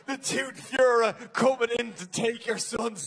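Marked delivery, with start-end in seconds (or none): 0.1-1.1 "fairy" said like Führer; mispronounced fairy. Shown as a demonstration. Comedian picturing the wrong visitor, "fairy" as Führer. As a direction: say "fairy" as "fyoo-ruh". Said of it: "That's a whole different thing".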